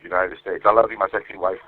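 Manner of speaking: quick recorded love message; said fast. Shown as a demonstration. Husband answering the phone prompt, said fast. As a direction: run "United States" straight into the endearment. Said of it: "That's how fast I say it".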